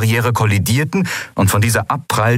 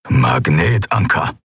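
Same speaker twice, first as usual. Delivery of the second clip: slow, low growl of a word; 4 semitones lower, slower than usual. Acted. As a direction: growl it out grimly. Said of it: "knurrte Kero".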